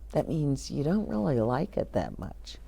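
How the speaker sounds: soft whispered aside. Real, not acted. Explaining "uncomfortable" to the children: soft whisper. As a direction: lean in and whisper the meaning.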